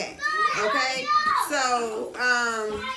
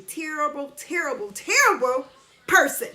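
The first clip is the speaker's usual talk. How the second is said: building emphasis; 2 semitones higher, 5 dB louder than usual. Retold or imitated. Angrily repeating insult, building.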